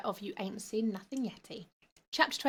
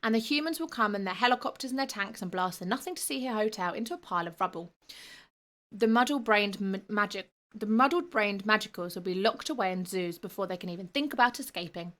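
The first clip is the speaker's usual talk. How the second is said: sneering. Acted. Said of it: "the boy sneered".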